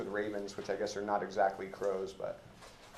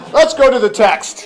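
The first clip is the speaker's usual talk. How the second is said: much higher and louder, talking through embarrassed laughter; laughing; 8 semitones higher, 15 dB louder than usual. Real, not acted. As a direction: laugh it off and push on to the text. Teacher laughing off awkward joke.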